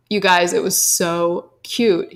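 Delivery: slow hushed whisper; real whispered aside. Real, not acted. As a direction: whisper how cute it was. Gushing about nephew.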